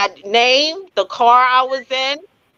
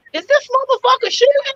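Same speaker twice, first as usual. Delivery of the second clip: high, stunned disbelief; can't believe he's shooting; a shocked voice in her head; 13 semitones higher than usual. Retold or imitated. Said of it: "I was like".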